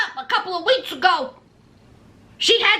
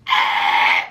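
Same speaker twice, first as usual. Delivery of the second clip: low, drawn-out "eh" noise; imitated Usman noise. Usman hearing the room request, low disbelieving noise. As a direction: let out a long, low croak of disbelief. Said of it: "Usman was like this".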